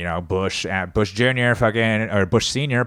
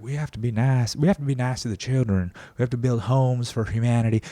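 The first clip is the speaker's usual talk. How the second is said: put-on genteel Southern accent; 4 semitones higher than usual. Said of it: "nice genteel Southern".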